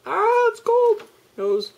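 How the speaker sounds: sudden high squeal at the cold. Real, not acted. Vlogger yelping at the cold air, high squeal. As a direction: yelp as the cold hits.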